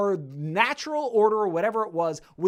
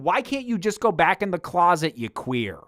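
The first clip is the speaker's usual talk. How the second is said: less polite; 2 semitones lower, 5 dB louder than usual. Retold or imitated. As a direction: imitate a blunt, rude dismissal. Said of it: "being slightly less polite about it".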